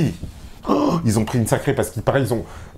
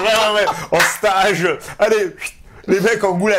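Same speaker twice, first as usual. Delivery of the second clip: mock army officer; 7 semitones higher, slower than usual. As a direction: bark it like a drill officer. Mocking army sending players away.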